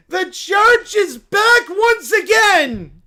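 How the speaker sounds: high, loud, slow cartoon bear voice; a cub thrilled by the news; excited little bear. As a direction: squeal it like an overjoyed cub. Bear shouting.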